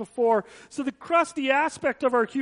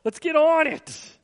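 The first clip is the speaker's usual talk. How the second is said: exasperated parent; 2 semitones lower than usual. Retold or imitated. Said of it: "from a parent's perspective where you're like".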